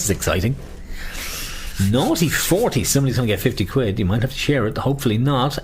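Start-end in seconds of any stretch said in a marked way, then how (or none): 1.9-2.8 sing-song bingo call; bingo caller. Acted. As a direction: call the numbers out. Calling bingo numbers.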